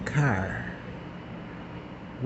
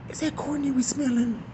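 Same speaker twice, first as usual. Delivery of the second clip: hushed question; 11 semitones higher, 8 dB quieter than usual. Retold or imitated. Secret aside about the smell.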